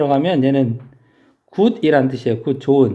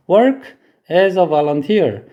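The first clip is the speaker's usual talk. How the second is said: slow English reading; much slower than usual. Shown as a demonstration. Teacher reads the example phrase to students, slowly. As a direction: read the example slowly aloud. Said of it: "자원봉사자로서 일하다".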